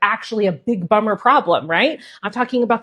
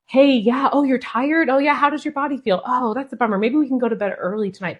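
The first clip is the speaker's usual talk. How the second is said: put-on high, gentle sympathy for a tired child; soothing mom; 4 semitones higher than usual.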